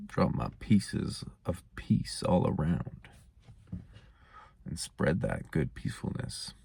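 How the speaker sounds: soft whisper. Real, not acted.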